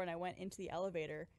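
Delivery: usual speaking voice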